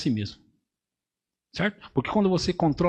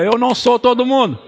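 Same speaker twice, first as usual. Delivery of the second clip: higher and louder, a proclaimed creed; loud declaration; 7 semitones higher, 8 dB louder than usual. Shown as a demonstration. Pastor pointing at the church to proclaim it louder and higher. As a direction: say it out with full conviction. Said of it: "Aponto pra você assim, diga".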